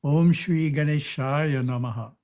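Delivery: lightly intoned, like a short chant; intoned mantra. Shown as a demonstration. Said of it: "one might intone the mantra".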